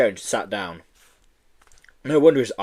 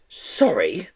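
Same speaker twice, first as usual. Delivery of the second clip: sneering; 5 semitones higher than usual. Acted. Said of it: "sneered Miss Hatchet".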